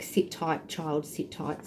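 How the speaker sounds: tender, hushed comfort from a mother; loving, motherly. Acted. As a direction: gently soothe a child. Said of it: "motherly energy coming through".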